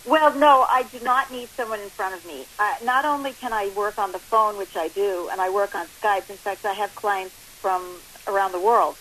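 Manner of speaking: phone line sound; talking down a phone line; over the phone. Real, not acted. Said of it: "obviously we're on the phone right now".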